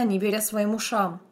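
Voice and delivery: ordinary delivery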